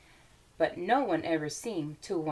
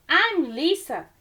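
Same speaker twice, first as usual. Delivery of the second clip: put-on higher, slow, eager little girl; 8 semitones higher, 4 dB louder than usual. Lisa greeting Corduroy in the morning, high and eager. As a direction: introduce yourself like a proud small child.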